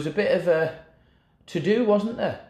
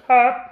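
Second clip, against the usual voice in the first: high exclamation; 9 semitones higher, 8 dB louder than usual. Retold or imitated. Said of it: "you use your own voice then".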